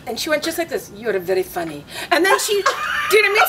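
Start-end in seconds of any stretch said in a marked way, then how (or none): 0.9-1.8 deadpan Huffington. Retold or imitated. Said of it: "she wasn't laughing".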